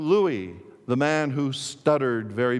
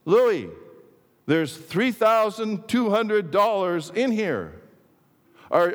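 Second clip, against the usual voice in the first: astonished disbelief; 8 semitones higher than usual. Acted. Minister stunned by huge sales.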